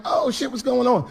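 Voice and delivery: high-pitched, friendly exclamation; surprised greeting. Acted. Comic greets friend backstage, high and surprised. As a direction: greet him high, as if happily caught out.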